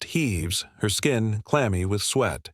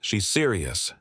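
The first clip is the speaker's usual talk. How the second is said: calm. Acted. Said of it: "his voice is calm".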